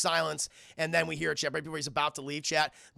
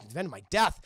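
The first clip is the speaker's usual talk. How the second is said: louder, questioning disbelief; alarmed repeat; 5 dB louder, much faster than usual. Acted. Son reacting to dad's note, alarmed disbelief. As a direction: echo it as a startled question.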